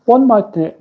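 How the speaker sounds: high, slow, slightly posh drawl; impression of Emma. Host imitating a chat member for viewers, high and slow. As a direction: Emma trying not to sound too posh. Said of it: "let's do an impression of you saying that".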